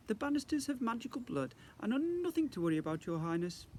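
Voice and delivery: a hint of high, genteel reassurance; calm the prince gracefully; lightly refined ghost lady. Lady Leonora reassures the prince, lightly genteel.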